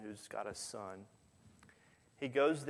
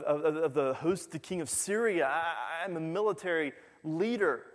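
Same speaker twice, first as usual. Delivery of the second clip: louder, higher indignant rant; a proud general insulted by the prophet; angry Naaman; 5 semitones higher, 5 dB louder than usual. Retold or imitated.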